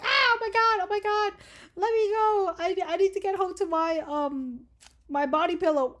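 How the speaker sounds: high, loud panicked pleading; mock screaming. Kidnap victim begging to be let go, mock screaming. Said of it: "screaming happening from you. You're like".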